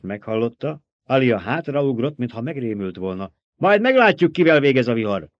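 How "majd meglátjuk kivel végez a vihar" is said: put-on high, loud girlish shriek. A narrator's reading. Girl backs into the baron's arms, shrieking. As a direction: shriek it high, easing toward the end. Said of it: "visította".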